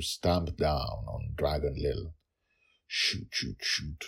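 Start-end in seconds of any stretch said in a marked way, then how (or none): 2.9-4.0 whispered. Acted. Father begs daughter to fire, urgent whisper. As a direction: whisper fast and pleading. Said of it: "Dragonfather whispered".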